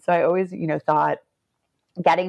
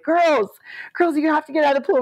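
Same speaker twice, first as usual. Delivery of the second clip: mock official; 9 semitones higher than usual. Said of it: "They're like".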